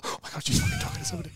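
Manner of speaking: high, quiet, hurried squeal; child's mock panic. Kid left at till while mum talks, mock panic. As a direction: panic under your breath, fast and high.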